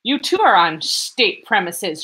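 slow, loud, high-strung retort; shrieking. Acted. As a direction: throw it back, each word pressed. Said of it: "shrieked Raskolnikov".

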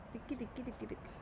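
quiet sing-song coaxing to a dog; soft coaxing call. Real, not acted. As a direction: call the dog very softly, almost under the breath. Chiama piano il cane nel gioco. (richiamo sommesso al cane)

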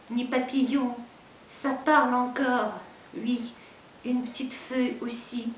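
measured French poem recitation with pauses between lines; poetry reading. Acted. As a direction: recite it line by line, letting phrases fall. Reads own poem in French. (размеренное чтение стихов по-французски)

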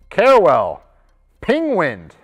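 name called out high; excited yell. Real, not acted. Host just excited by the names, yelling them. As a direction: burst out with excitement. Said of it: "I don't have to yell that one".

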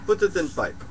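lightly voiced wise-man character, halting; a hint of a mystic sage dispensing advice; broken-English guru. Holds a broken-English guru figure.

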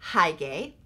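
"Hygge" said slowly as HIGH-gay; pronounced high-gay. Shown as a demonstration. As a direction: say "Hygge" with a first syllable like "high", ending in "gay". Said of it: "I've heard it pronounced".

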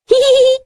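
very high, quick "hee-hee" giggle; demonstrated laugh. Shown as a demonstration. Teacher shows children how to laugh after a joke, high giggle. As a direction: put on a short high-pitched titter. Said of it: "સૂચના મુજબ હસતા જઈએ".

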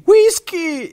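shouted high and loud; roared name. A narrator's reading. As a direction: call the dog with a roar. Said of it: "Poi Penelope ruggì". (urlo disperso)

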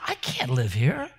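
low, hushed whisper; frightened whisper. Retold or imitated. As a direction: breathe it out in fear. Tenant scared, whispering his worry.

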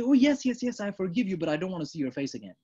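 mock eager yes, then cold refusal; grudging forgiveness. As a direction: sound gracious, then shut the door. Acted grudging forgiver quote.

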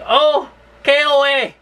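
high, loud, drawn-out mock shriek of disgust; imitating mother. Mother going off at dad on arrival, imitated loud high shriek. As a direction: ham up an exasperated mother spotting the campground. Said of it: "I can hear my mother's voice".

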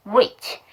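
rich drawn out, ending in chi; ch with i vowel. Shown as a demonstration. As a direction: say rich slowly, keeping an ee sound on the ch. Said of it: "이모음을 갖고 있으니까 그대로".

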